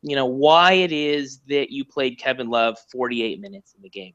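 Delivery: whiny little voice. Retold or imitated. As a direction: ask it in a small whiny voice. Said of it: "you hear my whiny little voice".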